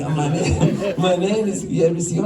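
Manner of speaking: laughing through the quote; cracking up at his own impression; giggling while repeating the official's name. Real, not acted. Laughing while retelling the call.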